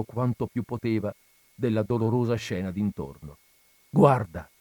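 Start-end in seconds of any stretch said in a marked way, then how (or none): 3.9-4.5 a sharp, louder commanding Guarda; stern loud rebuke. Acted. Friar rebukes Renzo: loud stern Guarda.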